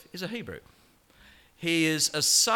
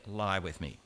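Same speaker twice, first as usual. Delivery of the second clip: low, soft come-on; seductive hush; 7 semitones lower, 6 dB quieter than usual. Acted. Preacher voicing Potiphar's wife to Joseph, a soft hushed come-on. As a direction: breathe it like a temptress.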